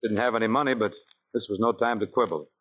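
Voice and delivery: low, wry storyteller voice; story narration. A narrator's reading.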